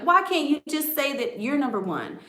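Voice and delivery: put-on high, upset little-girl complaint; imitated crying child. Upset daughter begging Daddy to agree, imitated high complaint. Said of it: "I was crying, like".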